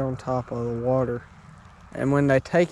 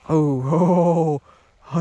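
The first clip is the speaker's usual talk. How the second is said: slow laughing oh oh; 3 semitones higher, 5 dB louder, slower than usual. Real, not acted. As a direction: laugh out the surprise. Fish strikes, laughing.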